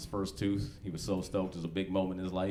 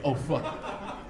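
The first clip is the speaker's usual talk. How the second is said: breathless whispered panic; a scared kid alone in the yard; panicked kid; 4 semitones higher than usual. Retold or imitated.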